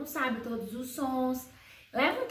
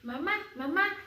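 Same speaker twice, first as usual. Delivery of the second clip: put-on higher, sing-song baby talk; mother cooing to baby; 4 semitones higher than usual. Mother invites her baby to feed, light sing-song baby talk. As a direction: coax a baby to nurse, lightly. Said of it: "naturalmente se comunica com seu filho e explica".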